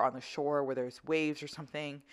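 ordinary talk

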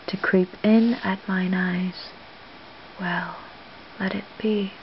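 understated dramatic recitation as Olivia, musing in pauses; Shakespeare monologue. Acted. Olivia reflecting on her conversation with Cesario, understated musing recitation. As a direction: think aloud in measured verse, lightly acted.

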